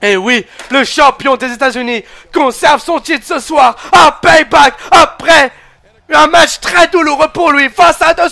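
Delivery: closing broadcast voice after the bout; match recap commentary. Acted. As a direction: sum up the match like a TV host.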